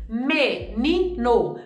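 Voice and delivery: MENINO broken slowly into separate syllables. Shown as a demonstration. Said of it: "Onde eu demorei".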